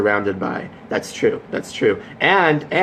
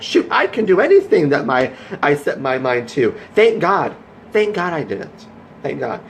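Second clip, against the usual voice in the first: higher, fervent thank-God pep talk; rousing grateful voice; 4 semitones higher than usual. Retold or imitated. Voicing his future self thanking God, high and fervent. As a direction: sell the triumph to him.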